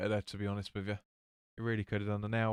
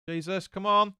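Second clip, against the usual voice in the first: excited outcry; 7 semitones higher, 6 dB louder, slower than usual. Real, not acted. Near miss watching the match.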